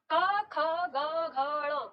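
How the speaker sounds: "क, ख, ग, घ, ण" sounded one by one from the throat; reciting consonants. Shown as a demonstration. Teacher repeating the throat row: each sound clearly separated. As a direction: model "क, ख, ग, घ, ण" for the class, each apart. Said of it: "जैसे हम बोलते हैं".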